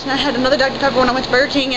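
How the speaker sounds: rushed, fast hyper chatter; fast run-on babble; talking really fast. Real, not acted. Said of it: "I'm still talking really fast".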